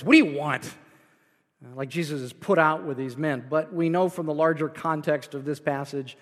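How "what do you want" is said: rough, put-out demand; gruff voice. Retold or imitated. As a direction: bark it like an annoyed man. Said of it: "read Jesus' question with a gruff voice".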